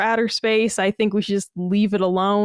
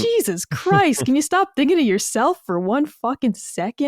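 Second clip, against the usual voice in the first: mock-outraged telling-off, pitched up; exasperated scolding; 5 semitones higher than usual. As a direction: scold a self-centred kid in disbelief. Scolding Punky in mock exchange.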